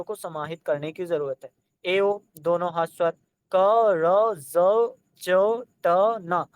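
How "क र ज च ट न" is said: sounding out क, र, ज, च, ट one by one; teacher voicing each letter clearly; demonstrating sounds. Shown as a demonstration. Teacher showing students how the letters sound. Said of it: "मैं अच्छे से बोल पा रहा हूँ".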